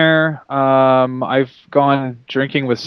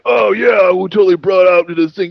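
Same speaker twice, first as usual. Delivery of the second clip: higher, louder hyped-up shout; mock excited boast; 4 semitones higher, 3 dB louder than usual. Podcaster mocking his own bragging, hyped shout. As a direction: ham up a proud claim. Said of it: "whenever I say anything that's like".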